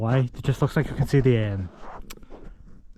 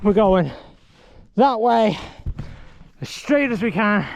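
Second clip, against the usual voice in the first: high put-on hobbit voice, urging; Sam from Lord of the Rings; 6 semitones higher than usual. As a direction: coax him onward like a loyal hobbit. Sam voice continues.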